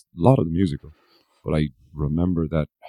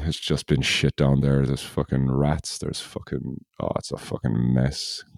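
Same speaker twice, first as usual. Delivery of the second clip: weary grumbling husband; 3 semitones lower than usual. Pretend. Apple salesman ranting to wife.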